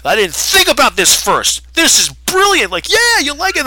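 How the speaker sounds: squealing hammed-up delight; mock excitement. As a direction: gush like you just saw genius. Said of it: "He's like".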